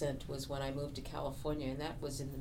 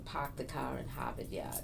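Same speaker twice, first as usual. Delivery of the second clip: Boston accent, dropping the R in "park" and "Yard"; R-less Boston "Hahvahd Yahd"; 3 semitones lower than usual. Shown as a demonstration. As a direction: say it the Bostonian way, R's softened to "ah". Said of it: "so we don't have that R".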